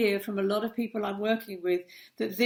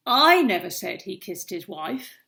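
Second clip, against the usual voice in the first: the word I punched at the start, the rest lighter; stress on I; 6 dB louder than usual. Shown as a demonstration. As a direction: lean hard on I, then let the sentence fall away. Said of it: "That is a great demonstration how, of how tone of voice completely changes a sentence".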